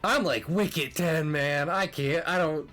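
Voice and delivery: high, loud and eager; bursting with laughing excitement; excited. Real, not acted. Excited high voice, fast exchange.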